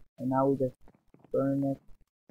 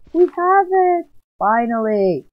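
much higher, louder joyous yell; ecstatic shout; 7 semitones higher, 8 dB louder, slower than usual. Real, not acted. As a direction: yell the win to viewers. Diamond obtained again, celebrating.

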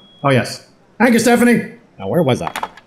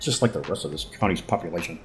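a soft, lower snide aside under the breath; muttered aside; 9 semitones lower, 12 dB quieter than usual. Acted. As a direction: slip the insult in under your breath.

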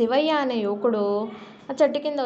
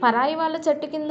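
higher, indignant telling-off; angry mock shout; 5 semitones higher than usual. Papayya scolding the sleeping stranger, angry mock shout. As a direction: act out the miser's rage, lightly. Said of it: "Papayya కోపంతో".

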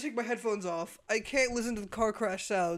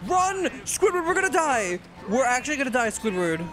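loud, high, frantic call to run; panicked urging; 3 semitones higher, 4 dB louder than usual. Real, not acted. Streamer urging Squidward to flee, loud frantic yell. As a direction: yell at Squidward like your life depends on it.

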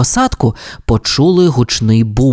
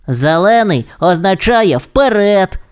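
slow, drawn-out happy cheer, a bit higher; joyful cry; 5 semitones higher than usual. A narrator's reading. Rocky the pup cheers on the go signal, joyful cry. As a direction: cheer it out slowly, in character. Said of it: "радісно закричав Рокі".

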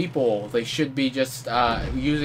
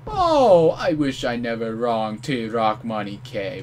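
mock enemy lament; 6 dB louder than usual. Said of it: "you're going to be saying".

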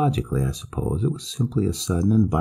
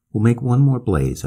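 firmly; 5 semitones higher, 4 dB louder than usual. Acted. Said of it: "I said firmly".

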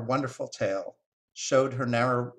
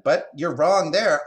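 loud, higher, eager contradiction; excited squirrel; 5 semitones higher, 8 dB louder than usual. Acted. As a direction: jump in to correct them, excitedly. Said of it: "The squirrel got excited".

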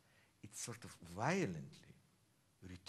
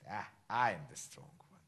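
mock devil; 4 semitones lower, 4 dB louder than usual. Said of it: "devil saying".

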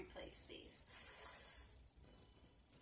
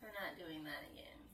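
whispering; 6 semitones lower, 9 dB quieter than usual. Real, not acted. Muttered after the pain.

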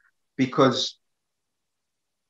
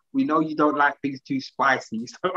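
laughing while quoting. Retold or imitated. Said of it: "and said".

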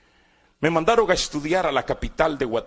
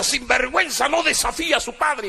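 higher scolding father's rebuke; a hint of an enraged father, pitched up; retold angry scolding; 10 semitones higher than usual. Father to defiant son while beating him, mock angry rebuke.

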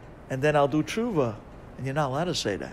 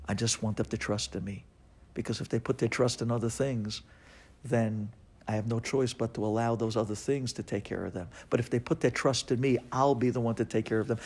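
tender reassurance. Acted. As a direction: soothe like a loving father. God's tender promise.

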